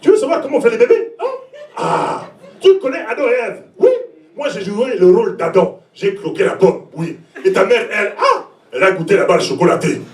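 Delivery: imitating a father's melodious voice with a light Congolese accent; romantic, lilting dad with a slight Congolese accent. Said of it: "avec sa voix romantique, euh, mélodieuse et son léger accent congolais".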